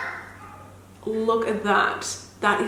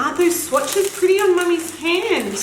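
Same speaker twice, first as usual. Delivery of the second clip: higher, sing-song mummy voice; 8 semitones higher than usual. Real, not acted. Mum showing her daughter the swatches, cooing. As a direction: coo it to your little one. Mother talking to her toddler.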